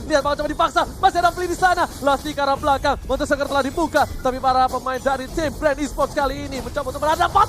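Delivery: excited play-by-play. Real, not acted. Caster builds into teamfight.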